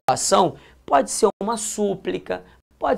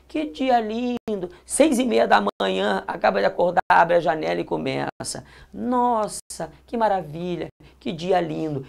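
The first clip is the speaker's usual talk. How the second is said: delighted sigh; 4 dB quieter than usual. Shown as a demonstration. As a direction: sigh it out softly, charmed by the day. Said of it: "Expressam basicamente uma emoção". (encantado e suave, com a janela aberta)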